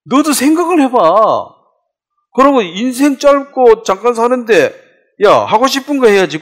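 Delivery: high, loud mock provocation; hammed-up egging-on; goading challenge. Devil goads people to rebel.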